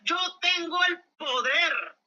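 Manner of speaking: slow, emphatic proclamation of a quote; declaimed scripture quote. Retold or imitated. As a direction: proclaim it word by stretched word. Quotes Jesus in debate climax.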